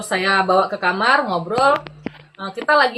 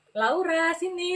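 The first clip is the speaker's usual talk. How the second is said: higher, softening coaxing voice; very gentle call; 8 semitones higher, 5 dB quieter, much slower than usual. Retold or imitated. Officer beckons the frightened detainee over, very gently. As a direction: imitate an officer sweetly beckoning someone over. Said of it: "dipanggilnya lembut sekali".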